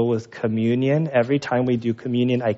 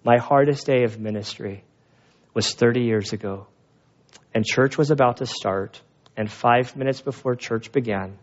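grave, measured retelling; sober, restrained confession; serious teacher. Retold or imitated. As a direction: quote a teacher turned serious. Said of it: "the teacher got all serious".

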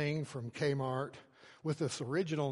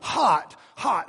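loud, raised one-word warning; urgent warning; 5 semitones higher, 11 dB louder than usual. Retold or imitated. Father grabbing his toddler's hand at the grill, urgent warning. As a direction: warn a small child sharply, word by word.

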